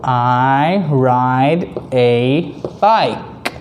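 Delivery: very slow, drawn-out choral reading; broad singsong kids theatre. Shown as a demonstration. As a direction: read it slowly with the kids. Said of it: "can you say it with me".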